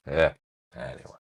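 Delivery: ordinary delivery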